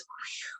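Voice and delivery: a soft breathy whew of relief; relieved whew. Acted. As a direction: let out a quiet relieved whew. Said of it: "the bunny rabbit says".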